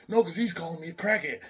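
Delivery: high, loud, whiny protest; indignant Chip. Retold or imitated. Chip complaining to Meech, high and whiny. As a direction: complain like the victim.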